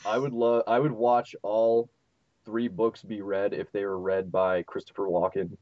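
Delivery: talking while choking on food; words caught on a bite. Real, not acted. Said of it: "Sorry, I'm choking on my food".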